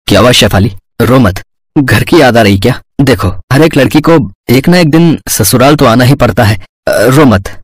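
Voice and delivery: low, gentle consoling husband; reassuring husband. Acted. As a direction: console a crying bride, voice kept low. Husband comforts crying bride.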